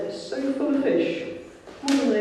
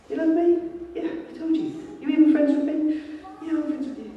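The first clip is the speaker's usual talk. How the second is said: exasperated Peter; 11 semitones higher than usual. Retold or imitated. Rapid back-and-forth of questions.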